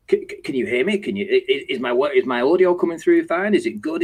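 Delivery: flustered caller checking audio; mock anxious "can you hear me"; mimicking Tony's mic check. Tony fussing over his audio.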